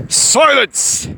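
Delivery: high, loud threatening alien; dangerous growl. A narrator's reading. The Gorg silencing Callahan, dangerous growl. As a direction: cut him off with menace. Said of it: "the Gorg growled dangerously".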